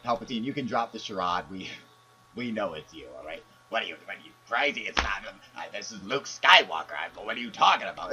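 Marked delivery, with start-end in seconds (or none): 3.7-8.1 indignant denial. Acted. Caller protests being unmasked.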